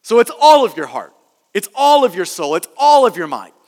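firm beat on "all", then falling away; stress on "all". Shown as a demonstration. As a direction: punch "all" in each phrase. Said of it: "you have the word all".

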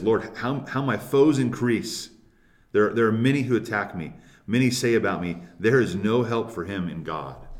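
pressing, emphatic lament read from a psalm; tense, intense lament. Acted. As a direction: lament with intensity, leaning on the words. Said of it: "a tense and intense emotion".

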